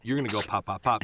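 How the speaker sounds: imitating a stunt coordinator's punched pops; brisk imitated action briefing; stunt guy instructing. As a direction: punch out each pop like gunfire cues. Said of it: "here's what you're gonna do".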